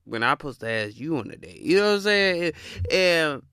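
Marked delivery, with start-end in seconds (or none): 0.0-1.6 much softer, puzzled mumble; quietly baffled, as if to himself; mock puzzled man. Man asked out by a woman, quietly baffled. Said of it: "It's like".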